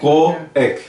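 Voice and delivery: coec split into ko-ek; wrong reading. Shown as a demonstration. Teacher repeats the misreading coec. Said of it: "Então eles lêem coec".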